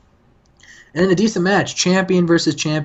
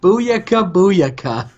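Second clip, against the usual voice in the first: higher, punchy luchador catchphrase chant; mock catchphrase; 3 semitones higher, much slower than usual. Retelling Rey Mysterio's new catchphrase to his co-host, a hammed-up higher chant. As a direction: belt out the catchphrase like a hype call. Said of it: "Why are you saying it like that?".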